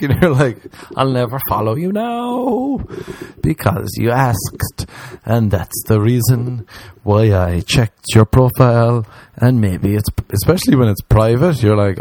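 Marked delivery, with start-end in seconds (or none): 1.0-9.1 snide slow put-down. Retold or imitated. His snide reply to follower.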